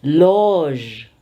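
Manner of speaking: LOGE with a long open vowel and ZH ending; open-mouthed loge. Shown as a demonstration. Teacher coaches students to open up, long open loge. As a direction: open wide on "loge", finish on ZH. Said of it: "Open your mouth".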